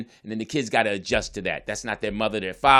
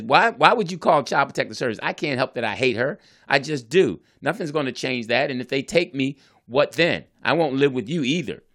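upset daughter; 4 semitones higher, 4 dB louder than usual. Retold or imitated. Daughter's retold angry outburst.

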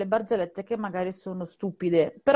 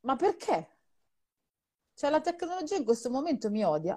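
usual speaking voice

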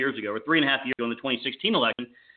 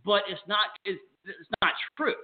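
crackly cordless phone; 2 semitones higher than usual. Real, not acted. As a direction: voice fading in and out on a bad line. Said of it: "you're fading in and out".

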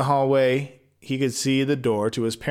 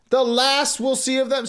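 shocked echo; 10 semitones higher than usual. Real, not acted. Narrator shocked.

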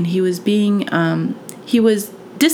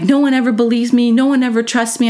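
put-on higher-pitched wounded kid's complaint; retold upset protest; 4 semitones higher than usual. Child confiding that no one trusts him, retold upset protest. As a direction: imitate a kid protesting, pitch held up.

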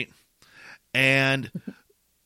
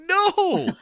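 emphatic no; 6 dB louder than usual. Retold or imitated. Answering mom.

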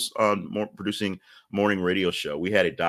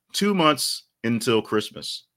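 slow announcer proclamation; 5 semitones higher, slower than usual. Real, not acted. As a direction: stretch it out for emphasis. Repeated countdown.

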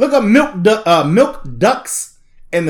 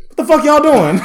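laughing outrage; 8 semitones higher, 3 dB louder than usual. Retold or imitated. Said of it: "the F D A was like".

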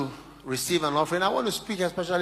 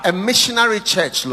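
fervent prayer; 5 semitones higher, 9 dB louder than usual. Real, not acted.

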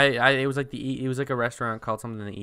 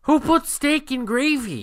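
much higher, slow, disbelieving question; incredulous; 13 semitones higher, 5 dB louder, slower than usual. Real, not acted. Host asks her co-host, incredulous at steak served in gravy. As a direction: sound like nobody could do such a thing.

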